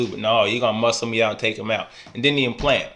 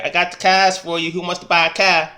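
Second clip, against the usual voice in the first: higher, louder hawking voice of a car salesman; car salesman pitch; 6 semitones higher, 4 dB louder than usual. Retold or imitated. Mocking a player who sold cars in Boston, higher salesman hawking. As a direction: hawk it like a lot salesman. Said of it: "He was like".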